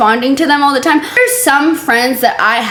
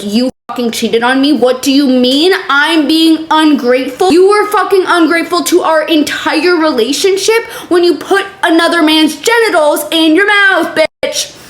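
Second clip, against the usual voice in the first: imagined furious rant; 5 semitones higher than usual. Retold or imitated. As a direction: tear into her as if wronged. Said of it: "I, like".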